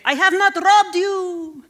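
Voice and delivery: high, loud, slow call from a car; parting shout. Retold or imitated. Robber shouting from his car, slow loud mock parting yell. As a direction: yell it back as you drive off. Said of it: "drove away saying".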